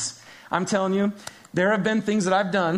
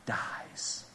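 whispered final word; 13 dB quieter than usual. Acted. Preacher whispers how darkness dies. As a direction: let the word die on a whisper.

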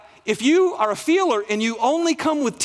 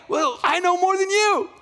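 higher, a bit cocky comeback; playful Jesus; 8 semitones higher than usual. Retold or imitated. Preacher voicing Jesus answering Martha, lightly cocky. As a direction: toss it back like a teasing know-it-all. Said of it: "And Jesus comes back".

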